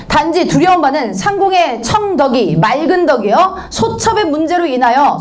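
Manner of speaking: high-pitched, put-on concern; mock-anxious pleading; pretended worry. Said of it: "걱정하는 척하죠".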